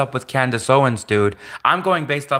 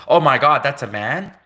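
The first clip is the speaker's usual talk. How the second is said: mock shock. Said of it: "you're in shock and you realize".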